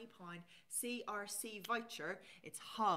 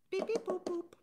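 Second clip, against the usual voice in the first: high, loud robotic beep-boop noises; computer beeps; 11 semitones higher, 7 dB louder than usual. Pretend. Host miming the voucher code going through, beeping high and loud. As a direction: play the checkout machine accepting the code. Imitating a checkout machine.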